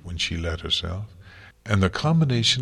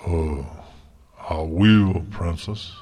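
nervous stallion; 2 semitones lower, 5 dB louder, slower than usual. A narrator's reading. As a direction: answer nervously in a lowered character voice. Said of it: "looked at the cheerful face of the princesses nervously".

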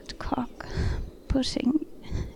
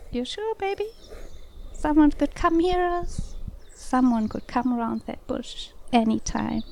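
teasing. Acted. Lover warning someone could come hear them, teasing. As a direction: tease them, pitched up at first, then settling. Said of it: "you decide to tease a little".

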